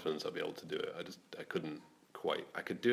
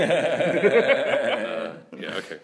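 put-on Glasgow accent; 12 semitones higher, 14 dB louder, much slower than usual. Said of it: "That was my Glasgow accent".

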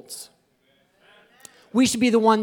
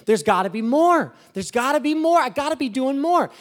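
frustrated longing; 5 semitones higher, 3 dB louder than usual. Retold or imitated. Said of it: "I just felt this frustration inside saying".

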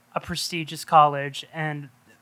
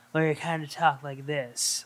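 Cage's other voice; 2 semitones lower, 4 dB quieter than usual. Retold or imitated. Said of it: "the other one was".

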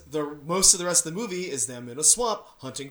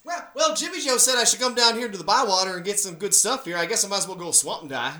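mock drawling newcomer sheriff; 5 semitones higher than usual. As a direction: lightly ham up the clueless new sheriff. Mock voicing the new sheriff.

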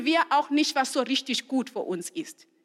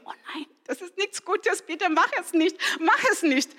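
dismayed inner plea; 4 semitones higher than usual. Retold or imitated. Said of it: "Und ich denke".

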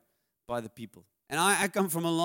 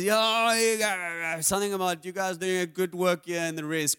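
mock drunk student, loud start; 4 dB louder than usual. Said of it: "he's so honest".

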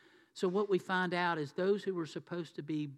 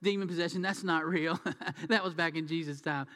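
light, amused scoff with a chuckle; laughing dismissal. Retold or imitated. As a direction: imitate people laughing it off. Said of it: "we laugh about that".

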